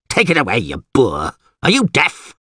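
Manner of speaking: mildly cross alderman, pitch jumping up; irritated scolding. Acted. Alderman scolding a peasant with a goose, irritated. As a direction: send him off impatiently.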